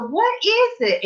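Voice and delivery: high, drawn-out pleading question; retold puzzled demand. Sister-in-law asking the laughing caller, puzzled demand. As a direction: imitate a relative pressing for news, slowly.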